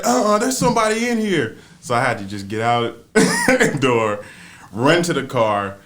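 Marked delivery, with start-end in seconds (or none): 0.0-1.6 high, loud imitation of an alarmed mother; mock alarm, voice raised.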